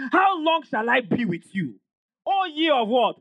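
mildly exasperated rhetorical question; frustrated Jesus. Acted. Jesus questioning his disciples, mildly frustrated. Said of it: "You could see the frustration".

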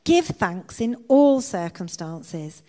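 loud, emphatic announcement of discovery; excited interruption. A narrator's reading. Betsy finds the answer in the verse, excited. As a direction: burst in loudly, then press the point home. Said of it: "Betsy interrupted".

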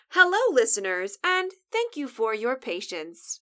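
lightly put-on host greeting; silly on-air voice. Co-host apologizing to listeners, lightly put-on host voice. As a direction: address the audience in a show voice. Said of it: "why am I using that stupid voice".

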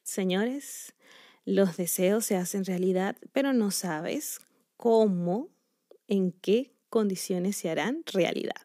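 telling viewers wishes come true at a price, softly and ominously; ominous hush. Pretend.

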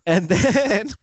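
ordinary talk

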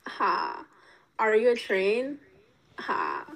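slow mock F boy pickup line; lightly acted F boy; F boy character. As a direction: deliver a cheesy line with a fake "ha". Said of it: "Ryan's character".

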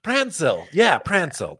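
high-pitched Prancil, "PRAN-sil"; imitated mispronunciation. Host copies the woman's odd word, high teasing Prancil as "PRAN-sil". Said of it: "That's what we're looking at".

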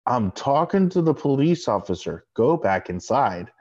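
slow, deliberate warning; pointed warning. Retold or imitated. Host warning an underage friend off the officer, pointed warning. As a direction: spell it out slowly for a friend.

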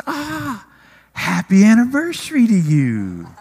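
squeal, then swell into her congratulations; delighted. Retold or imitated. Retells her delighted reply to greeting.

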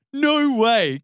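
high, loud mock outburst; retold cry of disbelief. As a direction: burst out as the incredulous foreman.

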